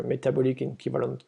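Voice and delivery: English term said with a heavy French accent; self-mocking French accent on English. Real, not acted. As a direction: read the English words the French way, self-consciously. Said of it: "excusez-moi pour mon super accent anglais".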